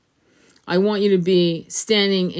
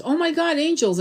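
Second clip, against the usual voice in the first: higher, amazed gasp at the angels; excited mom; 8 semitones higher than usual. Retold or imitated. Mother seeing angel clouds, higher and amazed. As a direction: imitate mom's thrilled surprise. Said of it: "She goes".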